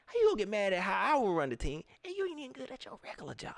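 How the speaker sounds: quick, scoffing mock; mocking rant. Roasting a fan who wants to be GM, fast and scoffing. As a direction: rattle off the jab. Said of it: "I'm put that on a shirt".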